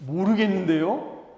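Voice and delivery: slow, rising mock innocence on 모르겠는데요; Cain's feigned ignorance. Cain shrugging off God's question with mock innocence. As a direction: play dumb with a lifted end. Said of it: "그랬더니 가인이".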